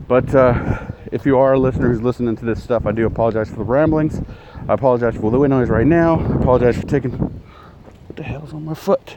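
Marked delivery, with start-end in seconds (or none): 4.7-7.1 windy outdoor recording; wind on mic. Real, not acted. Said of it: "apologize, uh, right now for wind noise". 7.1-9.2 startled. Real, not acted. Sudden distraction mid-sentence.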